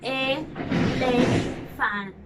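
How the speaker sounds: "Elephant" very slow, three separate beats; split into syllables. Shown as a demonstration. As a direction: stretch out e, le, phant in "Elephant". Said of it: "Let's try it again".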